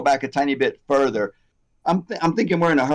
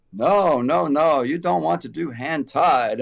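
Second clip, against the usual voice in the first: lightly imitated Chinese accent; attempted Chinese accent; 2 semitones higher than usual. Elderly company owner warning off hand-tied wefts, lightly attempted Chinese accent. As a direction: try a Chinese accent, not very well. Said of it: "not doing a very good accent".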